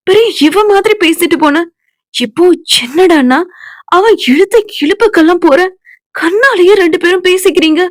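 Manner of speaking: scolding friend. Acted. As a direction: scold her like a fed-up best friend. Friend scolds Senba angrily.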